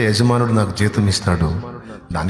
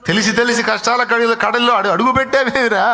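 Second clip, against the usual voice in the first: rising rebuke; 8 semitones higher than usual. Acted. Elder brother scolding the believer for choosing hardship, rising reproach. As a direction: pitch climbing higher with each reproach.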